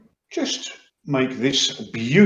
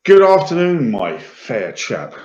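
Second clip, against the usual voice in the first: posh greeting; 2 semitones higher than usual. Acted. Tiefling flatters the blacksmith.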